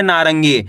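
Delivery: नारंगी said as one quick word; brisk, blended नारंगी; quick pronunciation. Shown as a demonstration. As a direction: run नारंगी together without splitting it. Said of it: "इसका उच्चारण तेजी के साथ निकालना है".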